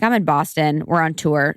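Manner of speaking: understated, matter-of-fact reply. Retold or imitated. Daughter answers mom about being on tour, matter-of-fact. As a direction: state it simply, with no fuss. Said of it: "I'm so matter of fact".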